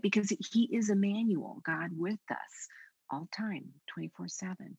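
ordinary delivery

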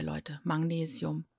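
Magnesium said with ng, quiet and slow; wrong version. Shown as a demonstration. Host imitating a common mispronunciation. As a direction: quietly drag the wrong ng form. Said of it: "Magnesium höre ich echt oft".

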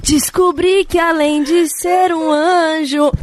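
shrieking laugh, slow words; laughing hysterically. Real, not acted. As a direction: laugh so hard the words stretch. Cracking up during the gull imitation bit.

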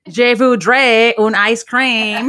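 slow, drawn-out French imitation; imitated clumsy French. Teasing Ceci about her French, slow mock French. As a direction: draw out mock French with English mixed in. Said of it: "I could just imagine you saying".

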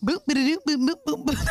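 mock house music. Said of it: "how to do the little house music sound".

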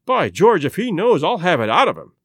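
loud, fired-up exclamation; eager cry. Acted. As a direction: burst out, eager to get at the constable. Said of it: "cried Lestrade".

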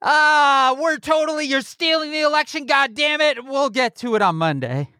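high, lazy half-hearted bluster; mock campaign voice. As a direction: sound like you barely care about the threat. Voicing the Trump campaign mockingly.

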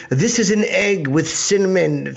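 slow, lightly mocking presentation; mock fancy waiter. Host mocking weird Michelin dishes, mock-grand announcement. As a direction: present a dish with mock ceremony.

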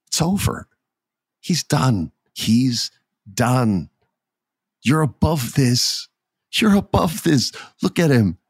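earnest imitation of a pleading wrestler; acted plea. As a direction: beg him to let it go, phrase by phrase. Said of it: "I'm acting this the best I can".

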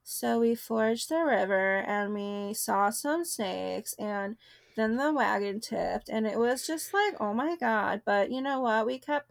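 half-successful monotone impression, dragging the words slightly; Kourtney monotone. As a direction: do a mild deadpan reality-star monotone. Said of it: "like, monotone voice being like".

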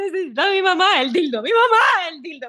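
high, wailing, half-laughing cry for mom; mock panicked crying. Virginia mocking herself sick with covid, wailing. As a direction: ham up sobbing for mama, can't breathe.

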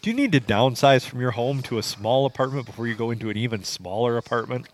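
lightly put-on commercial read; a hint of radio ad announcer. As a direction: read it like a smooth radio spot, lightly done. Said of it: "you also did it in your commercial voice".

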